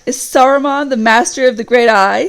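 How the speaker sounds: evil voice. Acted. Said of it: "said the evil voice".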